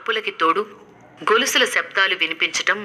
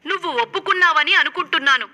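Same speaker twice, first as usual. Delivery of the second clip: Avantika speaking; 9 semitones higher than usual. Acted. Avantika voiced in story.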